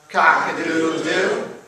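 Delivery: loud, slow crowing chant; drawn-out rooster chant; rooster crowing demand. A narrator's reading. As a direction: crow the refrain with the audience. Rooster crows refrain again.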